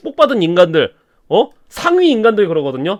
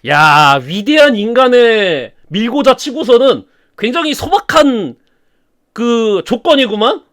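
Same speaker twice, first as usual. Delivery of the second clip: mocking sneer; 2 semitones higher, slower than usual. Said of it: "막 비웃습니다".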